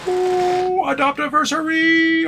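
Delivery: squealed high, cooing at the dog; high pet talk. Real, not acted. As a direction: gush over the dog's big day.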